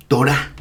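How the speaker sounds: Torah stressed on the last syllable, toRAH; final-syllable stress. Shown as a demonstration. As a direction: put the weight on the "rah" of Torah. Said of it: "el acento recae siempre en la última sílaba".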